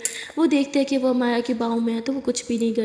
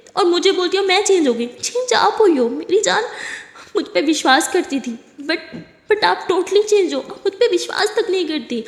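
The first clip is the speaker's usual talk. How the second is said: heated blame; 4 semitones higher than usual. Acted. Blaming partner for changing.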